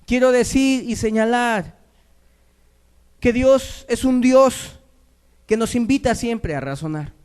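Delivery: earnest preaching. Acted. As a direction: declare it to the congregation. Preaches with raised voice.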